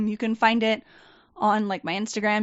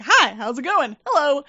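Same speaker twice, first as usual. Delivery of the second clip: over-cheery greeting; 4 semitones higher, 7 dB louder than usual. Retold or imitated. Her forced greeting to coworkers.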